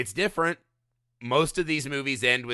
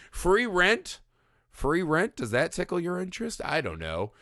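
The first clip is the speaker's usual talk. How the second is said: Catskill comedian; 5 semitones higher than usual. Pretend. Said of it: "I sound like I'm a Catskill comedian when I'm doing that bit".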